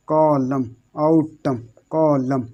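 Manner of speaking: कॉलम, आउटम in two beats each, no N; chant-like repetition of कॉलम and आउटम without N; silent N drill. Shown as a demonstration. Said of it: "इसको सिर्फ यहाँ तक पढ़ते हैं".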